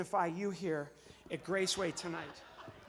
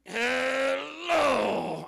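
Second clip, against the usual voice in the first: higher, louder, stretched puppet voice; loud drawn-out puppet hello; 5 semitones higher, 9 dB louder than usual. Acted. Ventriloquist makes puppet Zero greet the audience, loud. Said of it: "To make Zero say the word hello".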